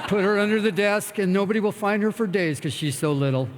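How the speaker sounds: half-laughing mock rage; laughing mock threat. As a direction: giggle through the fake menace. Joking about choking the sponsor.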